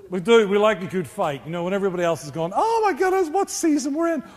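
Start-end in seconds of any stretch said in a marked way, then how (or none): 2.6-4.2 high squeaky alarmed fretting; mock panic. Preacher mimicking worried people, high mock panic. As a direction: play the panicked crowd, pitch way up.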